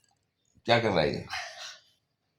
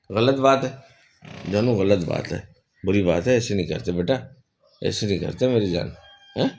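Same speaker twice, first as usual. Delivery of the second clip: tender chiding. Real, not acted. Gently chiding the parrot.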